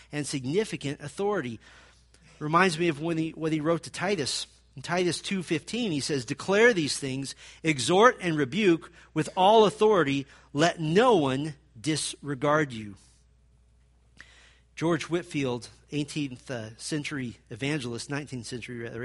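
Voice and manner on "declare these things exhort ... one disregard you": loud, slow, authoritative charge; forceful slow declaration; commanding scripture read. Shown as a demonstration. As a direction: proclaim it like an order. Quoting Paul's charge to Titus.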